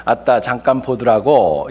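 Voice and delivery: slow, light Jeolla dialect; 느긋한 전라도 사투리. Retold or imitated. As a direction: drag out a gentle Jeolla dialect. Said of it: "그런데 전라도는요".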